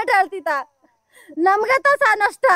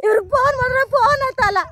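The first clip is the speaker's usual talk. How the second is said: real tears in the complaint; crying; 3 semitones higher than usual. Real, not acted. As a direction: speak through sobs. Woman complains tearfully to official. (ಅಳುತ್ತಾ ದೂರು)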